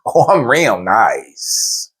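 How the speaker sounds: very slow, drawn-out sarcasm; retold menacing reassurance; sarcastic niceness. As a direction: stretch it out with mock sweetness. Sarcastic answer to be nice.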